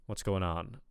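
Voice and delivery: "What's going on?" with a hint of Brooklyn; lightly imitated New York accent. Shown as a demonstration. Coach copies the clip's greeting, lightly Brooklyn-y. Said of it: "Brooklyn-y, New York".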